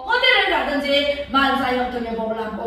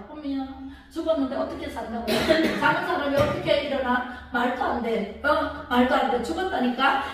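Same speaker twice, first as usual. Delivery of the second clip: quick, soft scoffing with laughs; mocking scoffers; 3 dB quieter than usual. Mourners scoffing at Jesus, softly mocking and laughing. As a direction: sneer at the idea, half-laughing. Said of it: "이러면서 막 예수님을 비웃습니다".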